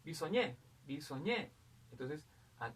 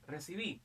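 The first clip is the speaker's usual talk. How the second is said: "recibí" with the stress on the final "bí"; stress on the last syllable; 3 semitones higher than usual. Shown as a demonstration. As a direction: put the voice's force on the end of "recibí". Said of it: "La mayor fuerza de voz está acá".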